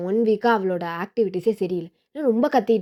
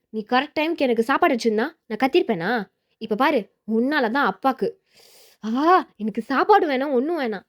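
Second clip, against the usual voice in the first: indignant, slightly raised-pitch complaint; cross yelling; 3 semitones higher than usual. Acted. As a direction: blame mom and refuse in a huff. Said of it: "அக்கா எப்படி கத்துறா". (கோபமாகக் குறை சொல்லிக் கத்துவது)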